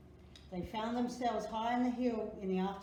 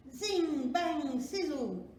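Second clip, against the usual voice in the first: punchy, louder, higher bursts; magic sound words; 5 semitones higher, 5 dB louder, much slower than usual. A narrator's reading. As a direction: pop out each magic sound.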